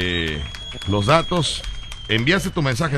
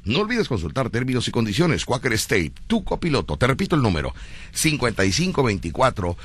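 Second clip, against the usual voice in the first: radio ad read; 2 semitones lower than usual. Acted. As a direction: sell it like a sponsor spot on air. Host reads a live ad.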